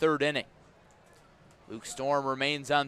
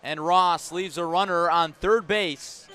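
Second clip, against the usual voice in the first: much louder and higher, slowing on fastball called; big strikeout call; 5 semitones higher, 8 dB louder than usual. Real, not acted. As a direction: belt out the called third strike. Called third strike, inning over.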